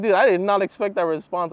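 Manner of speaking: loud, high burst of disbelief; confused outburst. Retold or imitated. He retells his reaction to her response, baffled and loud. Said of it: "I was so confused".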